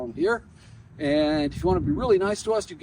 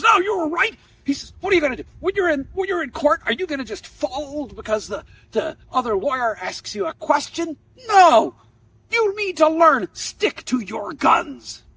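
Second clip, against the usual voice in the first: loud, higher tirade, "No!" shouted; angry lecture; 10 semitones higher, 7 dB louder than usual. Retold or imitated. Professor lecturing the student to stick to his guns, loud and angry. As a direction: hammer the lesson home, slowing on the last words.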